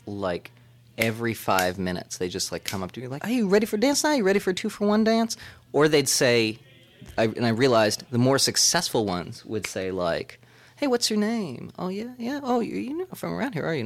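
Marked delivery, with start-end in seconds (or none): 3.2-5.4 high, quick sales patter; lifted voice, rattled-off offer; imitated dancer's pitch. Club dancers pitching him a dance. 10.8-13.9 high, softened small talk; light, high-pitched come-on; imitated chatty dancer.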